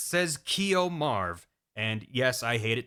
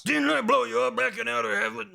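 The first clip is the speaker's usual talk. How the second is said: mock disbelief; 6 semitones higher than usual. Snake confronts Big Boss.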